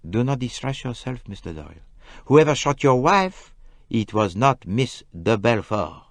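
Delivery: mild, soothing Poirot; calm him kindly; gentle. A narrator's reading. Poirot reassuring the injured Simon, gently. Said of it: "Poirot said gently".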